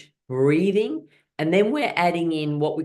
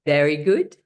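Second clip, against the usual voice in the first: cheering praise; 4 dB louder than usual. Shown as a demonstration. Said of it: "give yourselves a clap and say".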